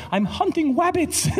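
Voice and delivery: high, slow cartoon hunter voice; w for r, drawn out; goofy hunter announcing himself; Elmer Fudd. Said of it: "when I was doing Fudd".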